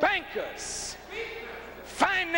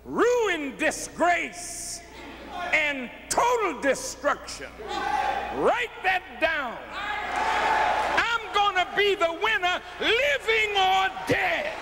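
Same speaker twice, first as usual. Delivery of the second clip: defiant proclamation; 4 semitones higher than usual. Real, not acted.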